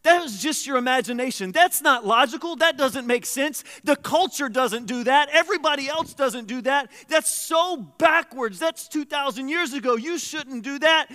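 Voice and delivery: hammed-up inner doubter mocking God's call. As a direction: taunt like the serpent whispering doubt. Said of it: "like Adam and Eve in the garden".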